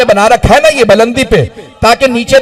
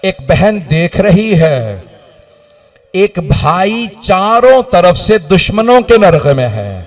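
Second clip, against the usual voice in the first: majlis lament recital; 2 semitones lower than usual. Acted.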